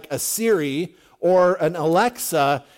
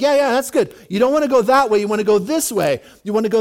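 lightly acted, higher and louder coaxing; mock helpful guide; 3 semitones higher, 5 dB louder, faster than usual. Elisha misleading the blinded army, playfully mock-helpful. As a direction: play the all-too-helpful guide, pitched up.

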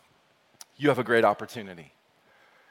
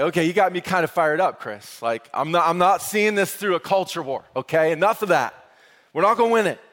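fired-up listener; 4 semitones higher, 4 dB louder than usual. Retold or imitated. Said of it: "the question you might have is like".

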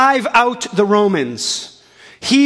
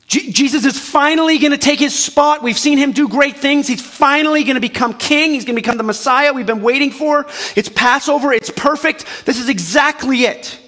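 higher, eager voice of hopeful crowd; rising hope, finally it is happening; excited crowd; 5 semitones higher than usual. Acted. Crowd hopes king is coming.

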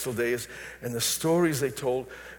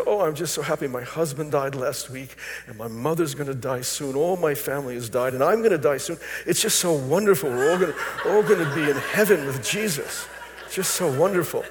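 brighter and louder, beaming with joy; joyful old woman; 3 dB louder than usual. Retold or imitated. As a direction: relive her overflowing happiness, smiling through it. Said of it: "She said".

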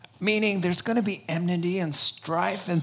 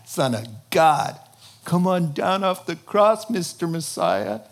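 mocking crowd. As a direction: taunt him like the crowd at the cross. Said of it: "mocking and saying".

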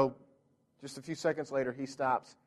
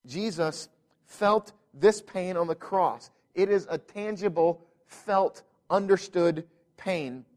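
preaching. Acted. Preaching builds in force.

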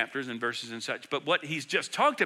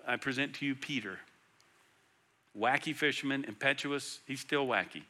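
tender prayer; 6 semitones lower, 6 dB quieter than usual. Retold or imitated. Jesus presents disciples to Father.

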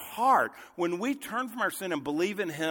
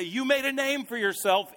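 higher, ringing praise of made; exultant declaration; 6 semitones higher than usual. Retold or imitated. Preacher voicing believers praising God, raised and exultant. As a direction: lift the word made high and proclaim it joyfully. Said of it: "and we say".

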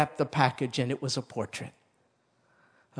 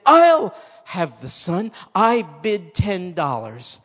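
loud, raised bid from the back row; calling out; 4 semitones higher, 8 dB louder, slower than usual. Acted. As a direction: call your bid across the room.

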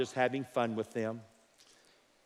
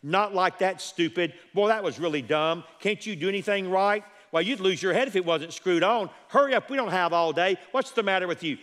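put-on sharp, impatient nagging at a child, a bit raised; harsh scolding parent; 3 semitones higher than usual. A fed-up parent berating a clumsy child, harsh and impatient. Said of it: "we talk to our children like that".

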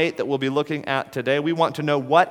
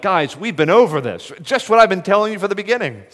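exasperated, faster and higher; frustrated; 4 semitones higher, 3 dB louder than usual. Pretend. Jesus exasperated with the Pharisees, frustrated. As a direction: sigh it out like a tired teacher. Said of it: "Was it a tone of frustration".

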